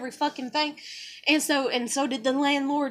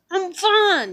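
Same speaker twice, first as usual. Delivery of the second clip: a half-raised call back, pitched up; hollered reply; 5 semitones higher, 4 dB louder than usual. Retold or imitated. To someone calling from another room, a mild holler. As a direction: holler it back to show you're fine. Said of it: "I just holler back".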